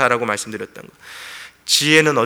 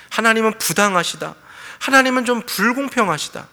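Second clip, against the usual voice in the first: higher-pitched complaint as Job; resentful grumbling; 5 semitones higher than usual. Acted. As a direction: grumble at God's unfairness. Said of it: "은연중의 원망함과 그 불평함". (원망 섞인 불평조)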